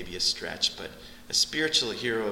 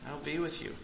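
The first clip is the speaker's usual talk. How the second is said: much softer, almost breathed repeat; hushed echo; 4 semitones higher, 8 dB quieter than usual. Acted. Preacher echoes God's promise to the church in a hush. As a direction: let it fall to a hush.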